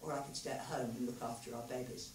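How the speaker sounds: soft, low and hushed; tentative quiet offer; very quietly. A narrator's reading. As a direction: say it quietly, almost to himself. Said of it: "he said very quietly".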